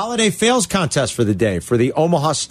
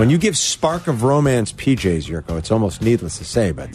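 sultry ad read; 3 semitones lower than usual. Acted. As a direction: sell it like a smooth romantic ad. Host reads a romantic pajama ad.

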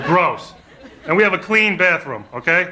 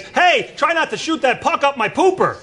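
higher, mock pleading goalie; a hint of a silly accent-free goalie plea; lightly voiced goalie; 8 semitones higher than usual. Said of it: "Peter Skudra says".

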